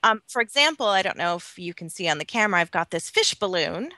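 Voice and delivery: patchy call audio dropping out; fading in through static. Real, not acted. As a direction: voice cutting in and out. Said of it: "your voice is fading in and out of Skype".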